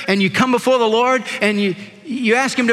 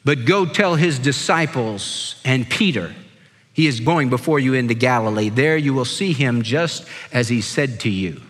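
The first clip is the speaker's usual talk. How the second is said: lower, measured reading of the verse; scripture reading; 7 semitones lower than usual. Shown as a demonstration. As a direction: read the verse aloud with weight. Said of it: "is Mark chapter sixteen, verse seven".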